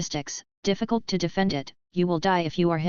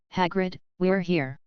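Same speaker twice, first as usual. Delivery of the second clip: shouting. A narrator's reading. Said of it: "Sirius stood at the door and shouted".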